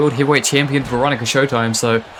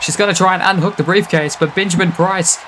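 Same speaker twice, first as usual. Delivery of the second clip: brisk, lively ringside call; wrestling commentator hyping the match; play-by-play commentary; 3 semitones higher than usual. Acted. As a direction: call the action like a live match.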